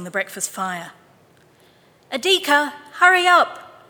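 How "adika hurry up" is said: bright, loud mother calling her son, much higher; cheerful call. A narrator's reading. Mother calls her son to hurry, cheerful call. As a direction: sing out his name to hurry him. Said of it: "she called cheerfully".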